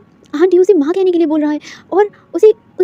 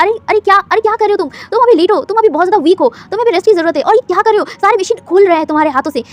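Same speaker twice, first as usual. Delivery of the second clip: alarmed doctor; 3 semitones higher, 6 dB louder than usual. Acted.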